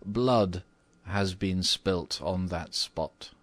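lightly voiced old housekeeper, slow and ominous; slow down for a grave disclosure; a hint of low, slow mystery. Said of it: "replied the old housekeeper in a low voice".

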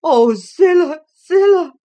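high, loud distressed wail of a name; anguished cry. Acted. Nelly to Zillah about Edgar, anguished. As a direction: cry her name in dismay. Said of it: "I gasped".

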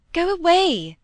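loud, high, sharp order to leave; commanding shout. Acted. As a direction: shout him away from the crying girl. Molly drives Preston off.

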